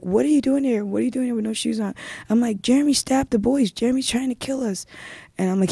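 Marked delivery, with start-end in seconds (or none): 0.0-1.9 higher, mildly alarmed questioning; retold startled mother. Mom at work questioning her barefoot child, retold startled voice. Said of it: "she's like". 2.6-4.9 higher, pressing report; retold urgent alarm. Child telling mom at work about the stabbing, retold urgent alarm.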